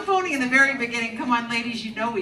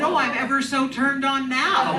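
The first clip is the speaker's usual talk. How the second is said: sarcastic; 3 semitones higher, slower than usual. Retold or imitated. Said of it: "I said".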